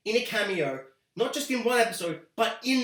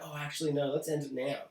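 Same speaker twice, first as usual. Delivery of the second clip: mock showrunner, offhand; 5 semitones lower, 6 dB quieter than usual. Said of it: "you're like".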